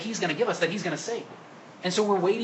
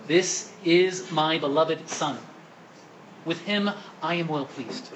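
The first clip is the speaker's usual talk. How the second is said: slow, measured voice from heaven, only slightly raised; booming heavenly proclamation; much slower than usual. Acted. God calling out over Jesus at his baptism, slow solemn proclamation. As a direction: proclaim it word by word, very drawn out. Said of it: "a loud voice called out, saying".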